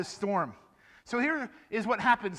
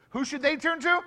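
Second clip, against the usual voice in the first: louder prompt; 6 semitones higher, 4 dB louder than usual. Shown as a demonstration. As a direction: repeat the question louder to rouse the kids. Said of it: "I don't think they heard you".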